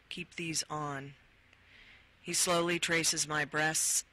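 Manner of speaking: calm, intimate book reading; memoir reading. Acted. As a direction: read it like an audiobook memoir. Reads erotic memoir passage.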